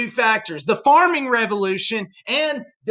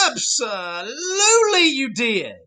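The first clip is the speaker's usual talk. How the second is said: laughing tease; 3 semitones higher than usual. Real, not acted. Teasing the class.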